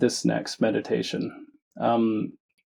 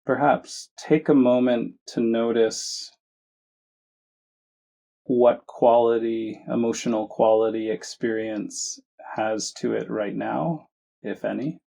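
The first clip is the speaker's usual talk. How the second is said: measured meditation guidance with long pauses; unhurried phrases, each given room to settle; guided meditation. Acted. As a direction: guide listeners gently, leaving space between phrases. Leads a guided meditation after chat.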